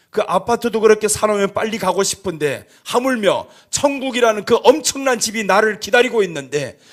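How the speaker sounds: ordinary talk, nothing marked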